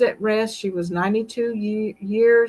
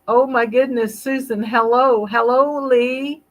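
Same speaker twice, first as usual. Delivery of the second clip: excited hello; 4 semitones higher, 4 dB louder than usual. Real, not acted. Greeting a viewer on live stream.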